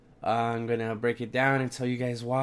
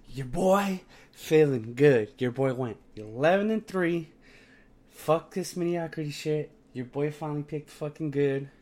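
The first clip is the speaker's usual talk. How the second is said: frat bro; 3 semitones higher than usual. Real, not acted. Hyping his winning picks.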